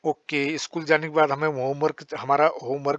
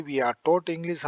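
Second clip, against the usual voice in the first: slow dictation; much slower than usual. Shown as a demonstration. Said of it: "अब आपने practice करनी है".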